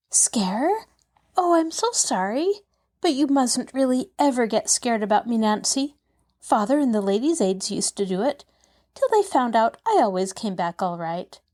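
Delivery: put-on bright, high little girl; a lightly voiced eager child; young girl voice. Narrator voices Pollyanna.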